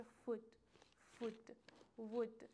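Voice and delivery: food and wood with a rounded "oo"; "oo" vowel. Shown as a demonstration. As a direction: model food twice, then wood, each set apart.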